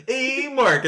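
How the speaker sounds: high, loud, stretched "hey"; mimicked intro shout. Co-host replaying the sync clip, high loud call. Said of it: "what I heard for thirty minutes".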